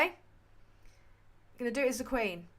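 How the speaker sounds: slow, plummy royal voice; the Queen. Acted. Streamer announcing to Kathy in a slow Queen impression. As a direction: deliver it like the Queen, slowly.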